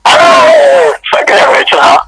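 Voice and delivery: sudden high yelp, then cry; exasperated yell. Real, not acted. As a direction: blurt it out in disbelief. Exasperated outburst mid argument.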